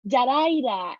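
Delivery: Jaraira, r opening the second syllable; mispronounced name. Retold or imitated. Woman quoting another wrong version of her name, mispronounced. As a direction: say Jaraira with an r in place of the h. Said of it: "not said properly".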